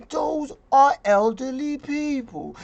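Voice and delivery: lightly voiced tough politician brushing it off; Governor Cuomo impression. Vlogger mocking Cuomo for viewers, a slow, lightly voiced Cuomo impression. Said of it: "I'm going to talk like Governor Cuomo".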